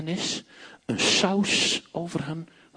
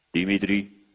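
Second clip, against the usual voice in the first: much lower calling out a name; deep calling voice; 10 semitones lower than usual. Retold or imitated. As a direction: call the name low and dark. (lage roepende stem)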